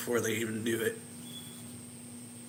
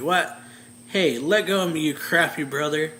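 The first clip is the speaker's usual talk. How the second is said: angry sister; 5 semitones higher, 7 dB louder than usual. Retold or imitated. Tangled sister yells at brother.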